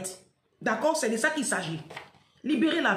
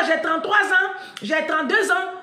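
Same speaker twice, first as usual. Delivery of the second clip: louder, laughing mock of athletes faking their age; mocking imitation; 5 semitones higher, 6 dB louder than usual. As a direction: ham up their lying, laughing. Mocking athletes who lie about age. (imitation moqueuse en riant)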